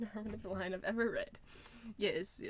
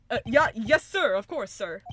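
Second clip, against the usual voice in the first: flustered officer; 10 dB louder than usual. Acted. Officer flustered before prosecutor.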